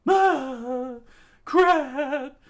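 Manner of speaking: very high, loud curse; high loud yelp. Acted. Character falling toward the water, high loud yelp. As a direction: yelp it in alarm.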